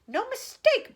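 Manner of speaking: loud high bark. A narrator's reading. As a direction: snap it out hard. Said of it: "barked the president".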